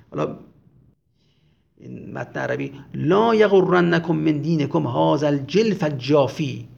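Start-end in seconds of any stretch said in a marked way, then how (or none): 2.9-6.7 slow, mildly raised Arabic quotation; raised-voice proclamation. Retold or imitated. Zuhayr warning the people about Shemr, mildly raised voice. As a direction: proclaim it slowly, a touch louder. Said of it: "با صدای بلند گفت".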